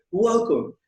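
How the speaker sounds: high, loud hammed-up welcome; exaggerated greeting; mock greeter. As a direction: call out a big welcome to visitors. Acting out greeting museum visitors.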